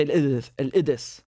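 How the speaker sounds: Al-Idis said with no q sound, glottal stop instead; Al-Idis, drop the Qaf as in Syrian speech; Syrian dialect, Qaf dropped. Shown as a demonstration. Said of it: "we say".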